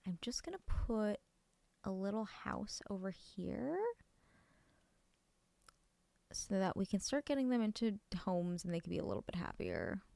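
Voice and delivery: soft unvoiced whisper. Real, not acted. Streamer quietly narrating her building, whispering. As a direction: whisper it while you work.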